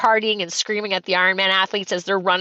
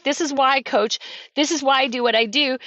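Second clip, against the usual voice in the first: moved, slightly raised voice; emotional; 3 semitones higher than usual. Real, not acted. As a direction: speak with real feeling about your purpose. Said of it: "I get emotional even talking about it".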